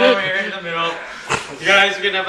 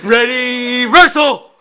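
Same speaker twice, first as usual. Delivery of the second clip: referee call; 2 semitones higher, slower than usual. Pretend. Referee starts the match.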